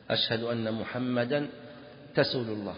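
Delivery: رسول said with t for s, "ratul"; t-for-s lisp on رسول; lisp demo. Shown as a demonstration. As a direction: turn the s of رسول into t. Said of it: "السين يجعلها تاء".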